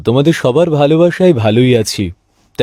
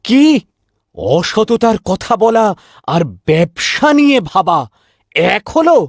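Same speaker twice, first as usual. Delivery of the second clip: higher, slowed outrage; can't believe she'd say it; indignant disbelief; 6 semitones higher, slower than usual. Acted. Husband protesting to his wife, indignant disbelief.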